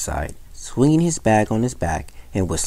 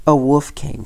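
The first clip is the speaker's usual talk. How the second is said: put-on raised, upset young shepherd; mock sobbing; 6 semitones higher, 4 dB louder than usual. A narrator's reading. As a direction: protest tearfully, without real crying. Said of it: "sobbed the boy".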